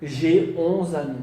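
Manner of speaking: "J'ai onze amis" spaced out; slow model sentence. Shown as a demonstration. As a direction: repeat slowly for students. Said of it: "Deuxième syllabe".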